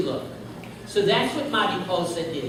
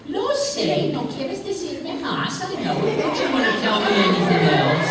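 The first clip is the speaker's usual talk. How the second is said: coy Mariposa voice; 4 semitones higher than usual. Acted. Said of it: "She said".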